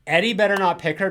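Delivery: loud, indignant rant at the screen; outraged outburst. Retold or imitated. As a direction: blurt it out, fed up with her. Reacting to the movie's ending.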